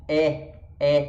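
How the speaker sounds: E said open, like Portuguese "é". Shown as a demonstration. Teacher contrasting Portuguese acute accent, open E. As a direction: drop the jaw for an open E. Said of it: "que abre mais ainda pra baixo".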